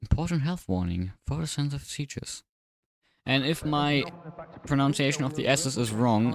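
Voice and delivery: lisping on new braces; s sounds blurred by braces. Real, not acted. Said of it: "So my S's sound weird".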